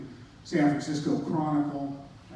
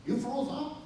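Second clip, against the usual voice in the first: surprised; 8 semitones higher, 7 dB quieter than usual. Retold or imitated. Mentor surprised at the story.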